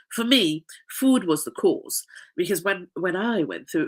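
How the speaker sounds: blocked-nose nasal voice. Real, not acted. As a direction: talk through a stuffy nasal nose. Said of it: "excuse my nasally voice".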